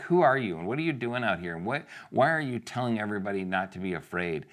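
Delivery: acted-out scolding, questions piling up fast; mock indignant challenge. Brothers telling David off, mock indignant.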